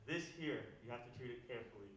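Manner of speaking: low, hushed ceremonial father to son; acted fatherly solemnity. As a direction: hand down an heirloom, softly and gravely. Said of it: "father and son are like".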